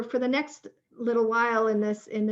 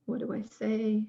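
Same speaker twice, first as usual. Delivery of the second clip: unhurried guiding voice with long pauses; measured prompts, pausing after each question; guided reflection. Real, not acted. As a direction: lead listeners gently through a reflection, leaving space. Leads a guided reflection exercise.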